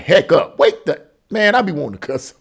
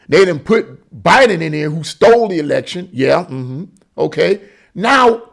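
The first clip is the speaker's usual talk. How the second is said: ordinary talk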